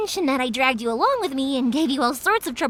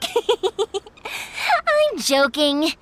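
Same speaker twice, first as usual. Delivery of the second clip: laughing it off; 4 semitones higher, much slower than usual. Acted. Teasing after joking threat.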